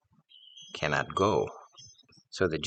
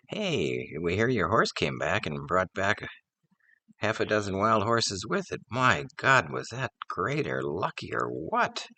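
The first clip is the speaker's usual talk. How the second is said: higher, brighter, rising to a cheer at My God; excited neighbors; 7 semitones higher than usual. Acted. Neighbors congratulating the lucky farmer, excitedly. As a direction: gush over the farmer's good luck.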